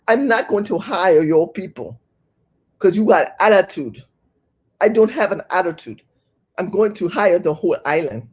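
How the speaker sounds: mock immigrant boss in a muddled Jamaican-African accent; mixed Jamaican-African accent. Supervisor refusing to hire black Americans, mock Jamaican-African accent. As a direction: imitate a dismissive supervisor with a put-on African-Caribbean accent. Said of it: "mixed that one up with my African accent".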